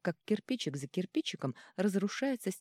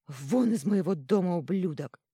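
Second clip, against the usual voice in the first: louder breathless rasp; out of breath after the blows; rasping breathless snarl; wheezed; 2 semitones higher, 6 dB louder than usual. A narrator's reading. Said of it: "тяжело дыша просипел Атрон".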